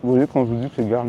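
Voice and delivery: talking with a mouthful; mouth full. Real, not acted. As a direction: speak through a bite of food. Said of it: "Pardon, je parle à la bouche pleine".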